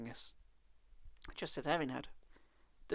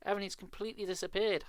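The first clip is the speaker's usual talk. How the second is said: crying out; 6 semitones higher than usual. Acted. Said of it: "I cried".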